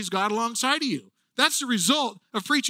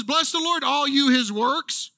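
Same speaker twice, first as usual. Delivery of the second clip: fired-up call; 5 semitones higher than usual. Retold or imitated. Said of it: "He says".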